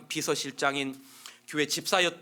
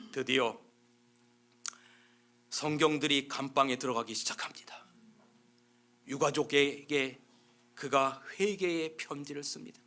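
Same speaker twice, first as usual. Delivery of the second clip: hushed. Real, not acted. Hushed turning point in story.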